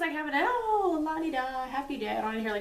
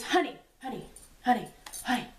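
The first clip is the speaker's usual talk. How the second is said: lightly voiced sleepy husband calling honey; sleep-talking husband; 3 semitones higher, faster than usual. Wife imitating her sleep-talking husband, mildly urgent. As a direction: call out like a half-asleep husband. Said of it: "very serious".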